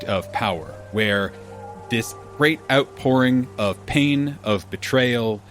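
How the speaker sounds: steady storytelling narration with dramatic pauses; game master scene setting. Acted. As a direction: set the scene like a dungeon master. DM scene-setting recap over music.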